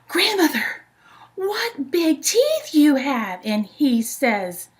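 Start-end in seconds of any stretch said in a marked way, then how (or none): 0.1-3.4 whispered, higher, slow and scared; Little Red whispering in fear at the wolf's teeth; frightened whisper. Acted. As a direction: breathe it out in alarm, very slowly.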